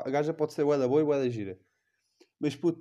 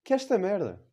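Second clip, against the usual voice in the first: mock outrage; 8 semitones higher, 4 dB louder than usual. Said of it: "Paula, fingi que ela se chama Paula".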